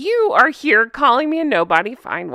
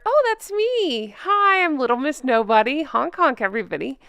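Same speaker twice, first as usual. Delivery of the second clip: silly clown; 3 semitones higher than usual. Pretend. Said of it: "The Little Miss Nobody narrator".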